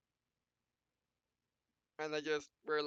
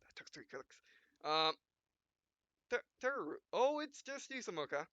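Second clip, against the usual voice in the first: lightly voiced game hero, dramatic beats; 6 semitones higher, 4 dB louder than usual. Gamer reading the hero's lines and punctuation aloud, lightly dramatic. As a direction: read the dot-dots for drama.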